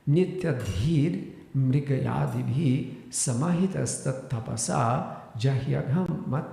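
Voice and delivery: slow, emphatic scriptural recitation; Sanskrit verse recitation. Real, not acted. Teacher reciting verse sixty-two to listeners, measured recitation. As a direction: intone each phrase of the verse deliberately.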